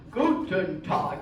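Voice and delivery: a hint of heavy German delivery; lightly put-on German. Shown as a demonstration. Teacher who spent time in Germany, slow German-accented call. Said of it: "'cause it always sounds like that".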